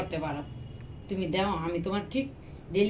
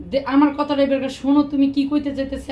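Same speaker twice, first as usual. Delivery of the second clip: raised voice, louder, demanding she listen; shouting at wife; 4 semitones higher, 4 dB louder than usual. Acted. Husband raising his voice so his wife will listen. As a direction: snap at her to hear him out. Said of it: "এমন চিল্লাচিল্লি করো না".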